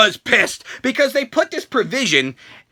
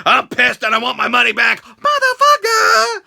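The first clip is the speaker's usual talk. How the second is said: rising furious yell on the last word; angry demand; 2 semitones higher than usual. Retold or imitated. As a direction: demand your money back, then explode. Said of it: "Jericho's like".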